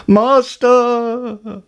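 high, loud magical harp cry. Acted. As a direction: wail it like an enchanted harp. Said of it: "the harp cried".

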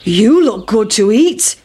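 lightly voiced hungry cow. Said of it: "shouted the cow".

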